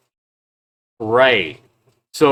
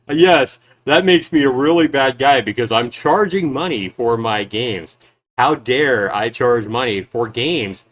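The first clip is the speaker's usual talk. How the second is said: sarcastic agreement; 3 dB louder than usual. Real, not acted.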